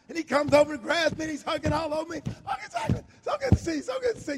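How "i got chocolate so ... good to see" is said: high, half-sung joyful greeting; overjoyed shout. Retold or imitated. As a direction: burst out singing his happiness. Man hugging him, overjoyed.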